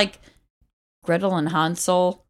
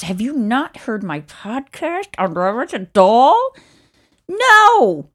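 mock indignant; 6 semitones higher, 7 dB louder, much slower than usual. Indignant retold reply.

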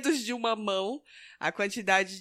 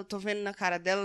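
usual speaking voice

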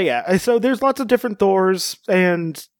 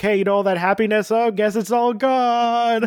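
mock breezy announcement; 5 semitones higher than usual. Next movie undoing the happiness, mock-breezy. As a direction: toss off bad news with mock cheer. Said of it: "it was just like".

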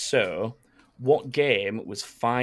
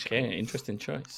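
radio voice; 2 semitones lower, 10 dB quieter than usual. Real, not acted. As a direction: drop it down like a late-night DJ. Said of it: "Play your radio voice there".

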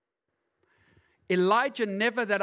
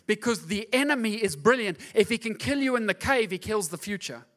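preaching climax; 3 semitones higher, 5 dB louder than usual. Real, not acted. Climax of the sermon.

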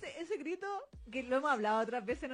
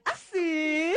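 amused prince; 5 dB louder than usual. Retold or imitated. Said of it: "Y entonces él dice".

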